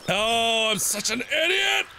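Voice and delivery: high, rising wail; self-reproach. Real, not acted. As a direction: wail at your own mistake. Berates self.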